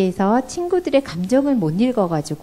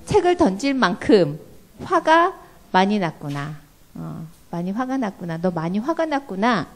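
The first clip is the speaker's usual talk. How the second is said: empathetic mom. Shown as a demonstration. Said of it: "이렇게 일단은 공감을".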